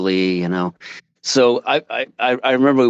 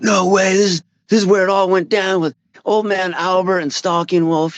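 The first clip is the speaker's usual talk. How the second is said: high-pitched retold disbelief; mock amazement; 9 semitones higher than usual. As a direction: react as if awestruck, pitched well up. Retold amazed reaction to Tom's tale.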